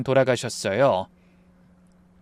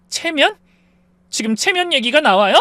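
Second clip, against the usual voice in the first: angry disbelief; 11 semitones higher, 4 dB louder than usual. Acted. 부부싸움, 아내가 어이없어함.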